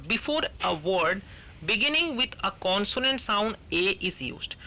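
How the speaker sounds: very slow textbook reading; slow dictation reading; reading the rule aloud. Shown as a demonstration. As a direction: drag out each word for the class.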